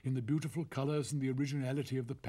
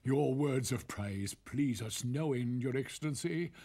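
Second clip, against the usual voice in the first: sly weaver voice; slower than usual. Acted. Narrator voices the rogues.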